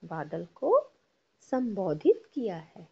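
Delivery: sing-song classroom recitation; teacher leading choral reading; repeat-after-me tone. Shown as a demonstration. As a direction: lead the class line by line. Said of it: "बोलिए मेरे पीछे".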